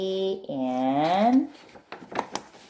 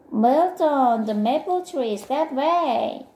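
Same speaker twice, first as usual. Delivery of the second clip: high, calling-out voice; urgent correction; 5 semitones higher than usual. Acted. Friend redirecting wandering Milton, urgently. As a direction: call out the correction, pitched up.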